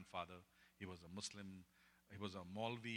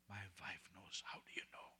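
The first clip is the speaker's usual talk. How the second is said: hushed whisper; 4 semitones lower, 5 dB quieter than usual. Acted. Man whispering about his secret grief.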